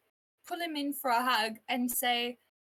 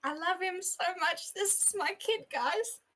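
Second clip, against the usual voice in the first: gushing affection; 7 semitones higher than usual. Real, not acted. Player gushing over the creature.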